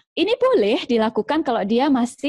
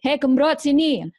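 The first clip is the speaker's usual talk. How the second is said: name-calling mother; 4 semitones higher, slower than usual. Acted.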